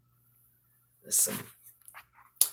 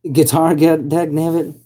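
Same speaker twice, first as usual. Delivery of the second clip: mock hick grumble; 9 semitones higher, 7 dB louder than usual. Mock hick outburst about guitar.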